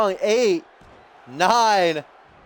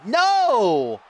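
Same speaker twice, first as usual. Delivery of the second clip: shocked exclamation; 4 semitones higher than usual. Real, not acted. Pin unexpectedly broken up.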